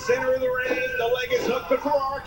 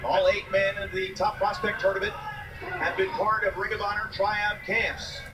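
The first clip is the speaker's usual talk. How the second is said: promo read in a lower voice; 8 semitones lower than usual. Acted. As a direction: read the plug like an announcer. Tryout camp promo read.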